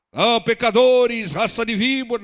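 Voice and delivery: loud, high mock denunciation; religious preacher. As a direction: imitate a zealot railing at sinners. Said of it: "Não precisa pregar como religioso".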